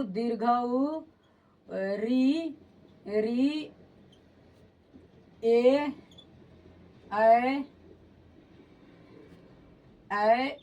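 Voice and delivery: slow, drawn-out recitation of vowels; reciting the vowels. Shown as a demonstration. Teacher writing on board, reciting each vowel slowly. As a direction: chant each vowel slowly as you write it. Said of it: "इसको पूरा रि- लिख देता हूँ मैं".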